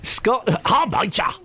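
light Irish greeting voice; a touch of Irish accent. Retold or imitated. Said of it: "Irish accent here".

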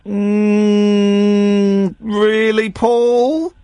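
high, incredulous radio host grilling a caller. Pretend. Host teasing the caller about his accent, high and mocking. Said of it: "you're on the wireless".

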